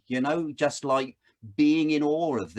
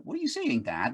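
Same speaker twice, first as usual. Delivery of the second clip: imitating his little daughter; faster than usual. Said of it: "She's like".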